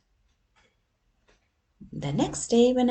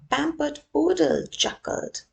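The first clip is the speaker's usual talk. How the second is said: high, bright narrator line; pitched-up storybook narration; high voiced narration; 9 semitones higher, 6 dB louder than usual. A narrator's reading. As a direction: lift the voice up high. Narrating the poodle.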